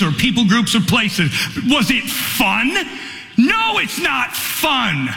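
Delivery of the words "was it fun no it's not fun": slow, higher, pleading preacher's cry; preaching the hardship of mission work, slow and fervent; impassioned preaching. Acted. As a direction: lean into each short line like a sermon climax. Preaching at full force.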